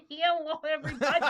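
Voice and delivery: mimicking cohost's intro. Guest copying the host's podcast intro, hammed-up imitation. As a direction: copy the host's hello, hammed up. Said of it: "do it the exact same way I do it".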